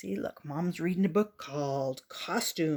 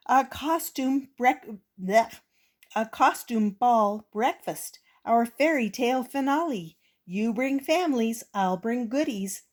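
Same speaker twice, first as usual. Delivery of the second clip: bubbly, higher announcement; excited teacher; 5 semitones higher, 4 dB louder than usual. Acted. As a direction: bubble over with news.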